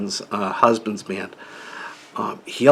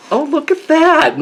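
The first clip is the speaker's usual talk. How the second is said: mock wife voice; 6 dB louder than usual. Teasing husband imitates his wife shopping, high coo. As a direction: play the wife cooing over every item. Mimicking wife browsing at Walmart.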